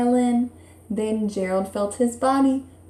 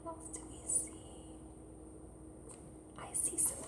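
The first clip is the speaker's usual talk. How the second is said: whisper; 6 semitones higher, 31 dB quieter, faster than usual. Real, not acted. Teacher whispers question to class.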